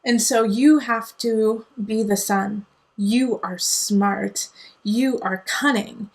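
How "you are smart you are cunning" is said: slow affirmation. Real, not acted.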